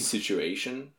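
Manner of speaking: "situation" slowly enunciated for the T; enunciated T sound. Shown as a demonstration. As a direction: say "situation" carefully, drawn out. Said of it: "My, mine is T's".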